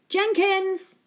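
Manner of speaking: loud, slow, booming call; big booming yell. A narrator's reading. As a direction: bellow the name across the house. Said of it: "yelled in his biggest, boomiest voice".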